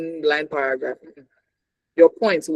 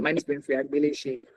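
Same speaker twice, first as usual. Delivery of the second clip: "Winfrey Agbeleche" said deliberately in a lower, softer voice; name emphasized; 3 semitones lower, 7 dB quieter than usual. Shown as a demonstration. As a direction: set "Winfrey Agbeleche" apart as the key words. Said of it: "Just like when I'm saying".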